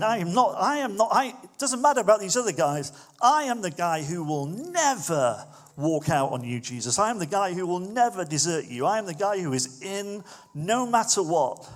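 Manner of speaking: high, loud insistent pledge, building conviction; Peter's fervent vow. Retold or imitated. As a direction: swear it like you'd stake your life on it. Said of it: "Peter's the one going".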